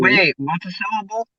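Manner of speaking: muffled, like through water; underwater gurgling voice. Real, not acted. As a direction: sound as if submerged in a fishbowl. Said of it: "You both sound like you're underwater".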